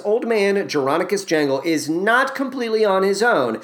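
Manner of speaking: ordinary delivery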